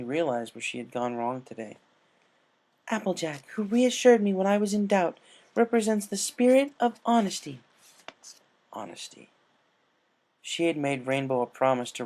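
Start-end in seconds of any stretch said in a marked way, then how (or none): 2.9-7.6 higher, louder formal declaration; a touch of a solemn proclamation; solemn recalled speech. Retold or imitated. 8.7-9.3 breathless whisper of one word; whispered echo. Acted.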